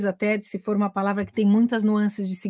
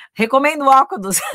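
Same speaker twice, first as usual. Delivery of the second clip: laughing plug; 4 semitones higher, 5 dB louder than usual. Real, not acted. Playful self-promotion plug.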